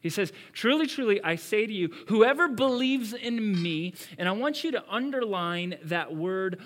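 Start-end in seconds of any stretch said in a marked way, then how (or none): 0.5-3.9 loud, high proclamation; emphatic scripture quote. Acted. Preacher repeating Jesus' promise to the church, loudly. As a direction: declare it with conviction.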